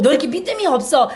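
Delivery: a touch of a scolding Jesus; rebuking. Pretend. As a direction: scold him briefly for his doubt. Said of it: "책망하시는 게 아니라".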